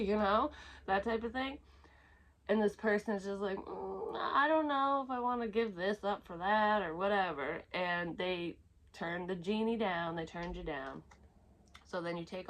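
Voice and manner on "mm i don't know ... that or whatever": hesitant refusal. Retold or imitated. Hesitant person refusing the genie.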